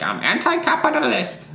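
bad high Russian accent; clumsy mock Russian accent. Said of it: "I was trying to do my Russian accent".

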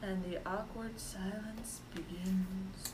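talking around a lollipop; words round a lollipop in the mouth; sucking a lollipop. Real, not acted. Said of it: "Sorry, I was enjoying this lollipop".

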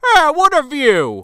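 high, slow contented sigh; Peter Weller relaxing. Retold or imitated. Peter Weller sitting in the bathtub, high and slow. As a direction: savour it slowly.

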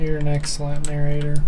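dry sarcastic praise. Acted. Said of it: "sounding really sarcastic".

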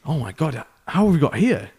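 retold astonishment, pitch jumping high; bewildered surprise. Priest coming round on the runway, mock bewildered. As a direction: imitate waking up utterly baffled. Priest wakes up after landing.

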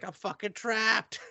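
high, drawn-out comic despair; dismayed. Retold or imitated. New girl learning she must share, dismayed. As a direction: stretch it out high in mock panic.

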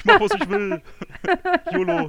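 put-on very high, loud defiant teen voice; cheeky teenager. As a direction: sass back like a bratty kid. Answering as defiant youngster.

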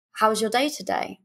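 a hint of something seductive; little naughty inflection. Shown as a demonstration. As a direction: ask it with a spark in the eye. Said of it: "a little inflection of ... naughtiness".

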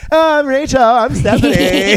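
high, mocking popular girl. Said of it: "It's like".

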